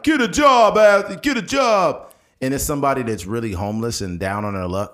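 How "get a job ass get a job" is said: high loud taunting shout; loud sneering holler; mock jerk yelling. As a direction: yell it at a homeless man. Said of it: "people be assholes".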